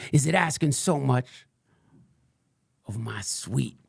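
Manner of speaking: lightly voiced crank ranting about the sun; a hint of a paranoid conspiracy ranter; Frank Blanders. Fringe podcaster rants to his followers, lightly put-on crank voice. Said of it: "what you just heard was, uh, um, Frank Blanders".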